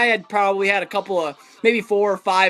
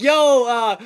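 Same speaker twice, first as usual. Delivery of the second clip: retold holler; 3 semitones higher than usual. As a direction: hail the kid from a distance. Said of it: "I hollered at him".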